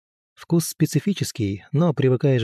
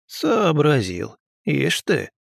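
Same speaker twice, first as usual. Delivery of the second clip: put-on higher, slow old crone croak; croaking old woman; 4 semitones higher, much slower than usual. Old healer croaks at the young man. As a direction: croak it like a sly old witch. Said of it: "прокаркала старуха".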